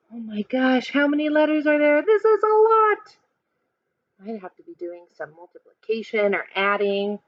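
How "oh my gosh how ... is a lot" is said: amazed gasp. Real, not acted. Teacher to kids, amazed at all the letters. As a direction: sound bowled over by how big the number is. Gasps at big math problem.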